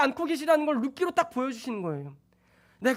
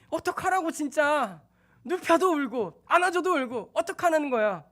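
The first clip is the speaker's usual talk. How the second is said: put-on at the end of your rope with a crying baby; exasperated; 4 semitones higher than usual. Tired father complaining to his crying baby, exasperated.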